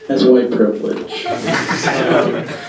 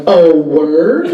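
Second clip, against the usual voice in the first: rising, curious "Oh, word?" with a laugh; surprised question. Retold or imitated. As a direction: ask "Oh, word?" as if it's news to you. Surprised question, then flat repeat.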